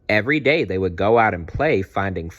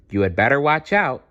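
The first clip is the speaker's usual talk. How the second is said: warning; 5 semitones higher, faster than usual. Acted. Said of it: "Stegosaurus said".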